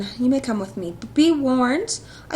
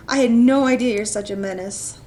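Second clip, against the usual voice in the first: ordinary talk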